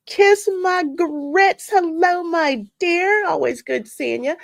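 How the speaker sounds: high, drawn-out catchphrase greeting; high-pitched, stretched-out hello; playful high greeting. Real, not acted. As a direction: sing out the greeting high and slow. Greeting a viewer by screen name.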